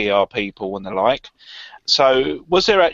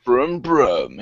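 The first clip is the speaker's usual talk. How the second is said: lightly mimicked car-presenter revving; hint of a motoring-host impression; Jeremy Clarkson. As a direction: echo a mock engine noise playfully. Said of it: "in a Jeremy Clarkson accent as well".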